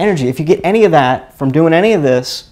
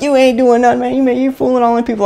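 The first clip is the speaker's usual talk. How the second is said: high-pitched teasing accuser; mocking friend; 10 semitones higher, faster than usual. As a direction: imitate a scoffing friend, pitched way up. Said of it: "He'd be like".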